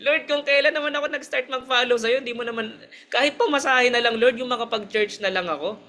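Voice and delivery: high, laughing mock complaint to God; half-laughing whine at the Lord; retelling her old gripe to God with a laugh; laughing plea. Retold pleading with God, laughing.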